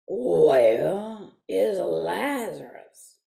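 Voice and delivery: slow southern drawl; southern accent. Acted. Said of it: "he had a southern accent".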